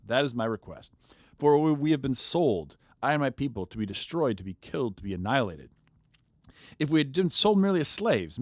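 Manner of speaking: an expressive Bible reading; scripture reading. Acted. A podcaster reading Esther aloud to his co-hosts, expressively. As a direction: read the chapter like a dramatic story.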